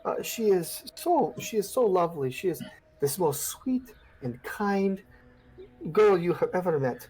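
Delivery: a hint of sobbing mother praising her girl; tearful mother. Mother describing her daughter.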